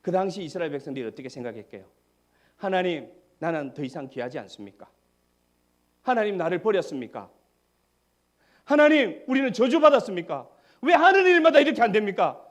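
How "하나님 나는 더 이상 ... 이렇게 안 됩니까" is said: rising to a much higher, louder anguished cry; the grumbling people's plea swelling into a loud, high lament; despairing complaint. Retold or imitated. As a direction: cry out to God in despair, building. Voicing Israelites' despairing complaint.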